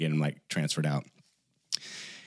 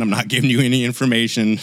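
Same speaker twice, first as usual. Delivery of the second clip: put-on cranky old man; 4 semitones higher, 4 dB louder, faster than usual. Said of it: "exact same cranky old man".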